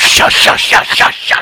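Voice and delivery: urgent unvoiced shushing; whispered hush. Hushing the girl in front of the cops in a whisper.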